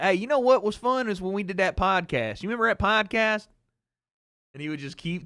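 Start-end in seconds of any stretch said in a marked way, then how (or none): 0.0-3.5 lightly voiced eager dad; pumped dad. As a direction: imitate dad keenly bringing it up. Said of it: "he was so pumped about it".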